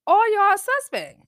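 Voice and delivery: slow loud all y'all suspect; loud accusing. Real, not acted. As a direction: call them all out loudly. Calling out the whole team.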